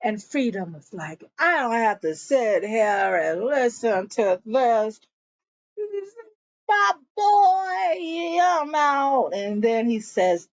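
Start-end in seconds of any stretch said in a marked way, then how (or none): 1.4-9.3 imitating a drunk man's defiance; mock drunken exit; drunk party guy. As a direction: voice a drunk guy storming off, rising high at the end. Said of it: "Freedom is so drunk he can barely stand".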